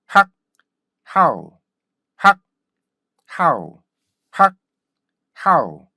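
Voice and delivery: clipped 학, pause, then falling "how"; repeated stop-sound drill. Shown as a demonstration. Teacher repeats the drill with learners, short 학 then "how". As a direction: punch out 학 and "how" in turn. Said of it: "다시 할까요".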